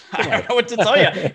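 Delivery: said through a real laugh. Real, not acted. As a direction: laugh while brushing it off. Laughs at own retort.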